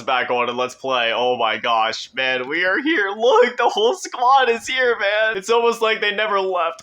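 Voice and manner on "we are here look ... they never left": gushing, happy reunion; overjoyed. Real, not acted. Sees old squad in lobby.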